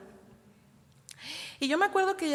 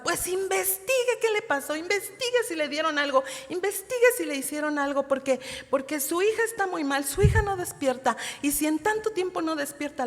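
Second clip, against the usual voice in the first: louder and higher, retelling her alarmed orders; angry doctor; 4 semitones higher, 4 dB louder than usual. Retold or imitated. Doctor pressing the mother to find the cause, retold angrily. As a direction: imitate an exasperated doctor giving orders. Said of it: "Pero sí estaba muy, muy enojada".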